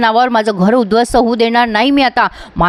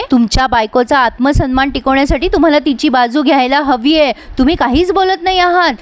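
scolding mother; 3 semitones higher than usual. Acted. Mother scolds silent son-in-law.

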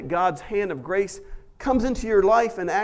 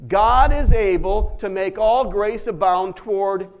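louder, leading the congregation in unison; group recitation; 7 dB louder, slower than usual. Shown as a demonstration. Pastor leading the congregation to repeat the verse aloud. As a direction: call it out for the church to repeat. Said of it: "Say it with me".

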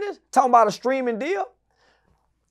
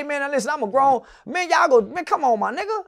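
retold fussing; 3 semitones higher, 4 dB quieter than usual. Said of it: "I call fussing and cussing".

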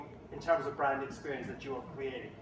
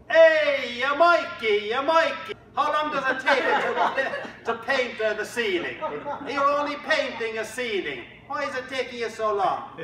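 much higher and louder, calling out in a Northern Irish lilt; the Pope calling; 7 semitones higher, 6 dB louder than usual. Acted. The Pope phones Michelangelo to hurry him, loud high calling. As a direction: hail him like a pushy boss on the phone. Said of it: "he says to Michelangelo".

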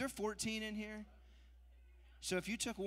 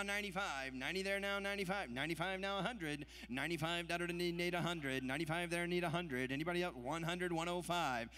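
rapid rhythmic bid chant; auctioneer; 3 dB louder than usual. Acted. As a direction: rattle off the numbers in a rolling chant. Live charity auction bid calling.

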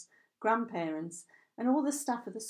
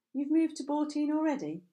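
surprised question; 7 semitones higher, 4 dB louder than usual. Acted. Ellie surprised at his news.

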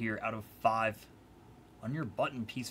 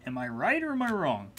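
singsong taunt; 4 semitones higher than usual. Acted.

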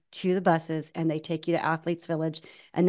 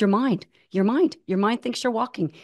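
higher-pitched, lightly imitated Japanese accent; half-hearted Japanese accent, raised pitch; 5 semitones higher, 3 dB louder than usual. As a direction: imitate a Japanese runner making his point. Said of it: "he said it in his accent".

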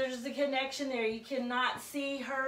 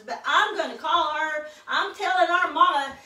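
put-on indignant little girl, laughing through it; hammed-up huffy child, giggling; bossy little princess; 4 semitones higher, 5 dB louder than usual. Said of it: "She says".

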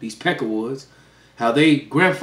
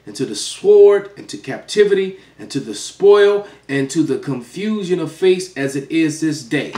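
raised, slow solemn prayer reading; scripture reading; 3 semitones higher than usual. Acted. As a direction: read the confession like a preacher at the pulpit. Reads scripture prayer aloud.

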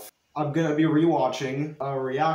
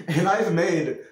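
laughing; 3 semitones higher than usual. Real, not acted. Laughing at own old faces.

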